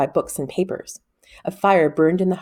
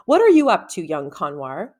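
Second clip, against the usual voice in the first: put-on impatient girl; 3 dB louder than usual. Rowan confronting Con impatiently.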